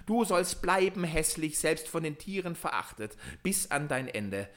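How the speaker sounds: a dark magician's curse, hammed-up; terrible voice. A narrator's reading. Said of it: "mit schrecklicher Stimme".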